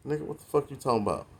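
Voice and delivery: fast, scoffing mock put-down; mock outraged sneer. Imitating old-school guys scoffing at how young people talk, quick dismissive sneer. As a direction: sneer it like the old heads would. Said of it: "people talking like this".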